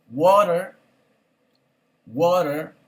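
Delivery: water given slowly with a tapped T; pause, then say water clearly for repeating; careful model word. Shown as a demonstration. Teacher drills the class on water, clearly. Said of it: "Damos de vuelta con water".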